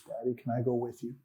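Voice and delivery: put-on soft, hushed little boy asking; small son's voice. Son hugging his father's legs, hushed little child voice. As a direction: barely voice the child's question. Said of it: "he looked up at me and he says".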